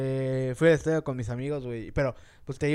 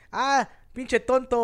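put-on timid kid insult; 8 semitones higher, 5 dB louder, much slower than usual. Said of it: "pensó que iba a decir".

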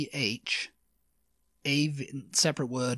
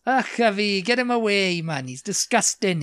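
higher Welsh cry of revulsion; acted disgust; 4 semitones higher, 3 dB louder than usual. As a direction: show how to recoil with "Ugh a fi". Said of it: "it just means ugh".

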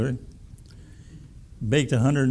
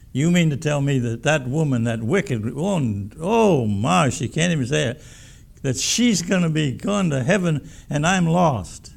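a moralist's offended outburst; indignant outrage. Retold or imitated. First woman protests indignantly.

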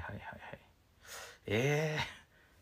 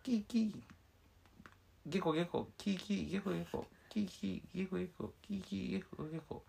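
frog croaks and monkey squeaks in turn; 4 semitones higher, 5 dB quieter than usual. Pretend. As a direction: act the race out in animal noises. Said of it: "カエルはゲコとしか言えない".

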